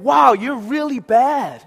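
slow, high, loud dismay; mock self-reproach. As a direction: gasp it slowly at your reflection. Acts self-reproach at a mirror.

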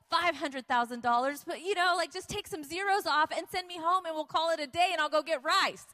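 incredulous inner protest, pitch climbing as it goes; exasperated thought. Retold or imitated. Speaker privately balking at a builder's huge figure, exasperated. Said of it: "that's what I'm thinking".

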